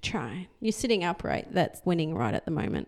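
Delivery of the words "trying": teasing whisper. Real, not acted. Teasing echo of son.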